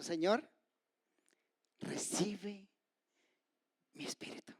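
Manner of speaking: halting prayer fading to a whisper; dying prayer. Acted. Preacher voices Stephen giving up his spirit, fading prayer. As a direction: pause between phrases, ending in breath. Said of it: "Y le dice eso".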